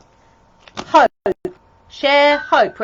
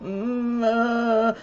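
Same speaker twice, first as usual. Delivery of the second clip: hesitant nervous hums, stalling for words; nervous mumbling; much slower than usual. Acted. Nervous wise man before Joseph, stammering hums. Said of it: "this one's a bit nervous".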